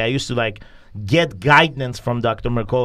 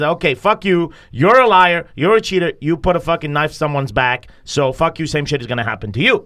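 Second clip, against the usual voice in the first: retold rant; 2 semitones higher, 3 dB louder than usual. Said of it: "So I went on a fucking rant".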